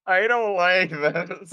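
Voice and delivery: laughing, slow nervous whine; half-hearted fright; mock scared. Character scared by perception roll.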